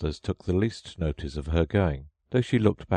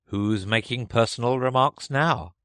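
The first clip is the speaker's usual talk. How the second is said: triumphant; 6 semitones higher, 3 dB louder than usual. A narrator's reading. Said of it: "the Hatter asked triumphantly".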